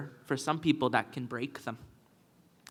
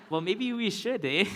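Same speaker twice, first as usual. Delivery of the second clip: higher, laughing retort; 5 semitones higher than usual. Real, not acted. Answering the dialect speakers, laughing. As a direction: toss it back with a laugh. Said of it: "laughing reply".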